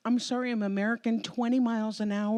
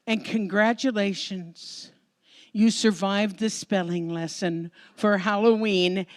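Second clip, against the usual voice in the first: normal talking voice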